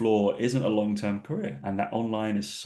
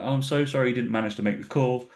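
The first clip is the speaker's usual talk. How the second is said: passive aggressive. Retold or imitated. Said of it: "I'm very passive aggressive when I'm like".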